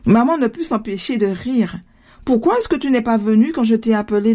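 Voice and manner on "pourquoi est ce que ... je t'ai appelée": plain reading voice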